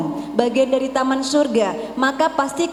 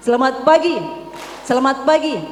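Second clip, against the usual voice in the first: loud greeting. Shown as a demonstration. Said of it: "kalau saya bilang selamat pagi".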